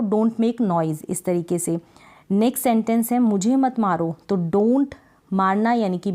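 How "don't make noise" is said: very slow, each word set apart; slow dictation. Shown as a demonstration. Teacher dictating an English sentence to learners, very slow. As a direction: spell it out slowly for students. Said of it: "शोर मत करो".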